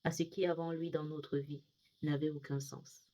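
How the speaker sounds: measured poetry recital with pauses between lines; poem reading. Acted. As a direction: recite a Christian poem line by line, easing down as it closes. Reads own poem aloud. (lecture posée de poème)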